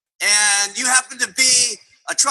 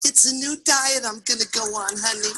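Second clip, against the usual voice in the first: meek wife; 4 dB quieter than usual. Acted. Wife meekly answers negative husband.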